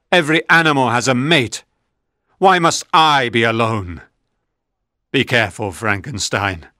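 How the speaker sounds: a lonely creature swearing revenge; mildly angry monster vowing revenge on Frankenstein. Acted. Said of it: "The monster looked at me angrily".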